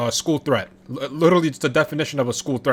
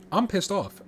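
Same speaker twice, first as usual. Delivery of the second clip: annoyed outburst; 6 semitones higher than usual. Real, not acted.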